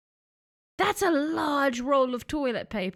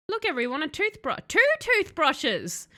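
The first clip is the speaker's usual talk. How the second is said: mock excitement; 3 semitones higher than usual. Mock thrill over bathroom find.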